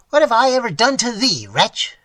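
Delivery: put-on old man crying out to his ingrate heir; anguished cry. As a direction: cry out in grief. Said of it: "cried the old man".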